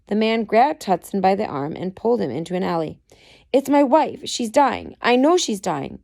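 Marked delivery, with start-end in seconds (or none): 3.5-6.0 anxious pleading, raised pitch; a first try at the pleading husband, not yet Irish; pleading man. Acted. Reader's first take at the pleading husband, mildly raised. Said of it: "the man pleaded in thick Irish accent".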